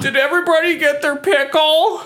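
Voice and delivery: high kindergarten teacher. Pretend. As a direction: talk like a preschool teacher. Teacher voice for kids.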